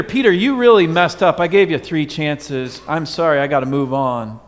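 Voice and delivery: lightly voiced disappointed scolding; mock stern rebuke to Peter; scolding Jesus.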